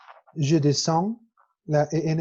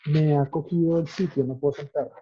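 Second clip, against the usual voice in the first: put-on Spanish with a light French accent. Teacher imitating a Frenchman's Spanish, light French accent. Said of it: "Un poco diferente a como yo hablo".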